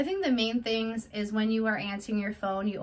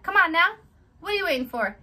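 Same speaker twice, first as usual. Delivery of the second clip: high, loud playful nudge; excited; 8 semitones higher, 6 dB louder than usual. Real, not acted. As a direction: come on now, much louder. Pushing subscribers.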